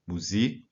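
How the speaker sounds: Musik slow, weight on SIK; stress on the end. Shown as a demonstration. Teacher shows Musik, stress on the ending. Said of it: "익의 강세가 오는 단어들도 있습니다".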